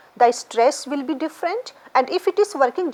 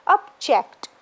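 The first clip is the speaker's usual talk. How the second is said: "object" with weight on ject, the second syllable; stress on JECT. Shown as a demonstration. Teacher showing verb stress, second syllable stressed. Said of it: "you will mark stress on the ject".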